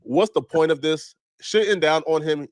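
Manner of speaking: slow, deliberate read. Real, not acted. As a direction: read the quote slowly. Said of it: "One person stated".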